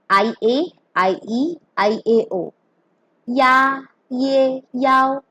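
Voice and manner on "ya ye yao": YA, YE, YAO each begun with a y sound; teacher modelling "ya, ye, yao"; pronunciation demo. Shown as a demonstration. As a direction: sound out ya, ye, yao one by one, held level. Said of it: "It will be pronounced".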